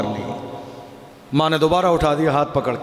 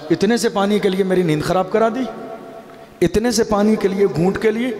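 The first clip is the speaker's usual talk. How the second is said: higher, indignant retold complaint; angry son's outburst; 5 semitones higher than usual. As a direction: voice the son's irritated protest, pitch climbing. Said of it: "اس کو بڑا غصہ آیا".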